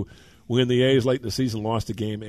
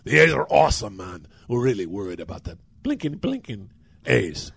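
mock the A's with contempt; disdainful sarcasm. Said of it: "He looks at me kinda disdainfully".

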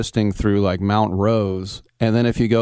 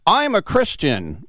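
higher, slow, pointed declaration; coming in hot; 8 semitones higher than usual. Retold or imitated. Host mocking someone declaring faith aggressively, pointed and slow. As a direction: announce your faith like a challenge. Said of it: "If somebody comes in hot like that".

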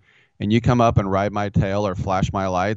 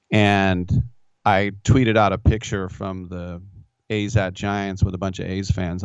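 usual speaking voice

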